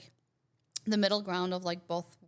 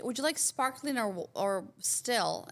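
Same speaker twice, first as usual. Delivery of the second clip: lightly put-on English waiter's accent; imitated English accent; 2 semitones higher, slower than usual. Retelling the English dude's question, imitated English accent. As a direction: mimic an English server offering water. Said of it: "it was just so weirdly said".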